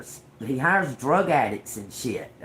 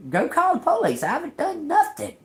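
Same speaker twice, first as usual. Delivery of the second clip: defiant retort. Retold or imitated. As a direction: throw it back at her. Retold standoff with the lady.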